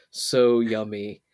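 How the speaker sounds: so yummy stretched very slow; drawn-out mutter. Acted. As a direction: drag out so yummy. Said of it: "I muttered".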